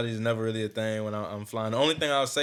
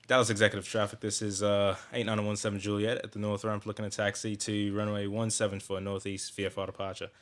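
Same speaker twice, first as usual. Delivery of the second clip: low, soft British radio voice; British accent, quiet and even over the radio; British pilot radio call; 3 semitones lower, 6 dB quieter than usual. Shown as a demonstration. Pilot calling Dallas traffic, in a British accent. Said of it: "I speak British on the mic".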